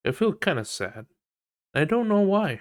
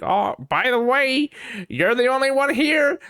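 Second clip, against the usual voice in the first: chirpy app voice; 5 dB louder than usual. Retold or imitated. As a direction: read it like a cheery app. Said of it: "the side thing that's like".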